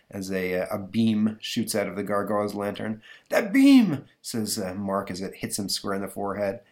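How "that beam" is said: high, loud alarmed shout; sudden shocked exclamation; startled cry. Acted. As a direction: yelp as the beam strikes. Mark hit by beam.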